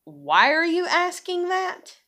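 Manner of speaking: high, slow, drawn-out disbelief; pointed questioning. Retold or imitated. Woman acting out questioning men's hints, incredulous. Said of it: "you can be like this".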